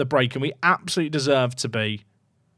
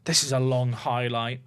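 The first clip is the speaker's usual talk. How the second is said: low, soft nervous muttering to himself; 5 semitones lower, 8 dB quieter than usual. Shown as a demonstration. Streamer watching his team defend, muttering nervously. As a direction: mutter it under the breath, uneasy. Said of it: "the more nervous I get".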